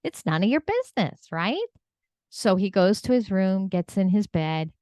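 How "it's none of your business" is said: imitating a dad's heated scolding, pitch jumping up; mock-angry parent telling off a child. Dad snaps at little boy for asking his pay, angry. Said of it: "the dad gets angry again".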